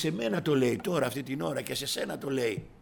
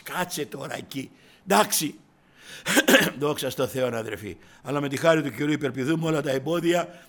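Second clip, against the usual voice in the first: ordinary delivery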